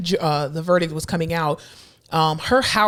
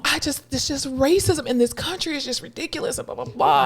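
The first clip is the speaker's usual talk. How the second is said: mock emotional; 7 semitones higher, 4 dB quieter than usual. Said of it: "so emotional".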